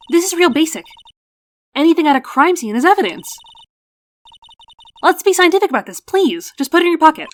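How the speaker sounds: high, loud, insistent lecturing; bossy young investigator. Acted. Girl lectures lawyer on crime scene evidence, bossy high voice. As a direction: scold him like an eager junior scientist.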